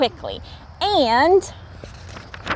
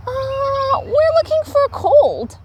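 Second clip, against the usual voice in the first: put-on matter-of-fact child; 14 semitones higher than usual. A narrator's reading. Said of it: "Little Raccoon answered".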